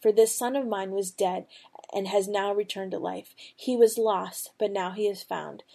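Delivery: measured, earnest Bible reading; scripture reading. Acted. Pastor reading the prodigal son to the church, measured scripture reading. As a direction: read the passage to the congregation.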